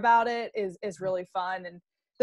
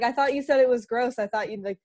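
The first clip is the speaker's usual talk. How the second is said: playful teasing; 4 semitones higher than usual. Retold or imitated. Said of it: "I'm like".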